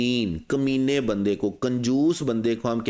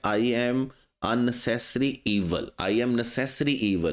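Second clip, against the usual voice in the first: villain line; much slower than usual. Retold or imitated. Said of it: "वो कहता है".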